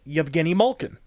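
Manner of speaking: Yevgeny Malkin with a Y and MOLE-kin; announcer's corrected pronunciation. Shown as a demonstration. Announcer started saying it this way, Yevgeny Malkin as MOLE-kin. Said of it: "started pronouncing it".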